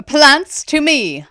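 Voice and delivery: high, drawn-out battle yell; loud yowl. A narrator's reading. Fern summoning her plant army, loud yowl. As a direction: yowl a summons across the field. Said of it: "Fern yowled loudly nearby".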